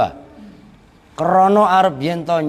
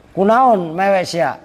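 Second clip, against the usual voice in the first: Banten dialect; 5 semitones higher than usual. Retold or imitated. Preacher voices the angel asking in Banten Sundanese, mock scolding. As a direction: tease like a blunt Banten villager. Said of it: "gitu kalau kata orang Banten".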